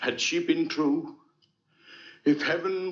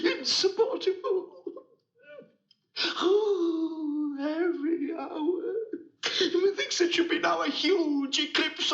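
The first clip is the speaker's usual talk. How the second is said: anguished cry; 10 semitones higher than usual. Acted. Othello in anguish after killing.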